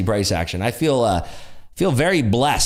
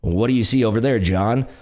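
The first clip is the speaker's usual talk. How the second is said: booming play-by-play announcer; broadcast voice; 2 semitones higher than usual. Pretend. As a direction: call it like a football broadcaster. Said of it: "read this in your best broadcast voice".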